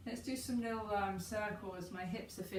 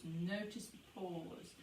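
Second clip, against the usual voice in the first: notice the pause, slower and softer, fading out; soft slow echo; 2 semitones lower, 6 dB quieter, slower than usual. Shown as a demonstration. Guide echoing her cue to notice the pause, slow and soft. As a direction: let the repeat sink in, slowly and softly.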